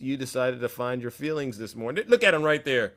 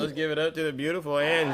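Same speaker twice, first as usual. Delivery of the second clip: hype intro; faster than usual. Real, not acted. Host hyping the crowd.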